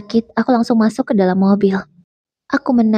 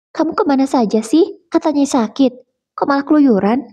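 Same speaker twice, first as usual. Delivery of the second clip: higher, nagging mother's scold; 5 semitones higher than usual. Acted. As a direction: tell off your daughter like a fussy mum. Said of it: "Mama menyambutku dengan omelannya". (ibu mengomeli anaknya, suara lebih tinggi)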